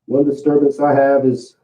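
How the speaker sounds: muffled, face down on the mat; talking into the mat. Real, not acted. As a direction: speak with your face in the mat. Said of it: "I'm talking into the mat".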